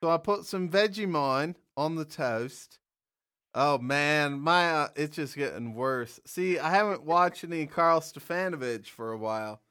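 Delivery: shaky attempt at an Australian accent; amateur mock-Australian accent. Shown as a demonstration. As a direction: do a bad Aussie accent, drifting toward English. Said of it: "your Australian accent".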